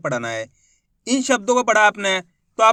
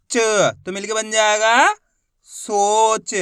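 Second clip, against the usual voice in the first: put-on a teacher chanting sounds for kids to repeat; sounding out Hindi syllables for a class; slow phonics drill. Shown as a demonstration. Demonstrated syllable reading.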